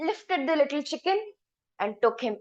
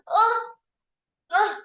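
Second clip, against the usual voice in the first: straining grunts; 7 semitones higher than usual. A narrator's reading. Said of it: "he started struggling".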